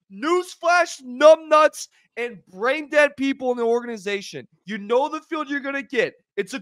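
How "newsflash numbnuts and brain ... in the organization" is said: angry insult. Real, not acted. Insulting the player and organization.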